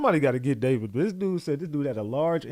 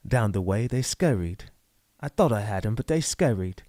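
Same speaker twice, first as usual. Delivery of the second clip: Gollum; 4 semitones lower than usual. Acted. Commentator mimics the witness as a Lord of the Rings creature, Gollum impression. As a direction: apologise as a servile little creature, pitched down and hushed. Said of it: "was Gollum".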